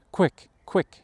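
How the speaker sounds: high-pitched, quick narrated shout; a restrained storyteller's shout; urgent shout. A narrator's reading. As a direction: call out urgently, voice lifted. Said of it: "he shouted".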